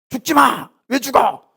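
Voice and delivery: high, pleading protest; Peter protesting. Acted. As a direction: cry out against his death. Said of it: "막 소리를 질러".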